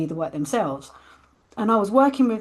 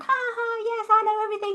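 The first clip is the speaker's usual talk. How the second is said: much higher, giggly cocky boast; laughing and bubbling. Retold or imitated. Reliving her smug first workshop day, bubbling with laughter. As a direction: play your know-it-all day-one self, laughing. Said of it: "I was bu-, laughing and bubbling like".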